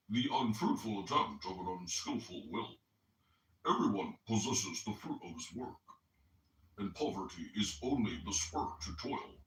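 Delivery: lightly put-on nasal voice, reading aloud; mock a friend's nasal voice while reading; a hint of a nasally Chicagoan read; mock Coptic. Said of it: "imitate Coptic as I read".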